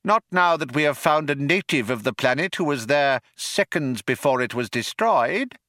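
high-pitched little mouse; Frankie Mouse. A narrator's reading. Mouse explains about the native, high voice.

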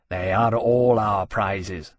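low, slow, sullen dragon; grudging dragon. Acted. Dragon disputes his rival's prizes, sullen. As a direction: correct her slowly, pitched low. Temeraire voiced, sulkily correcting her.

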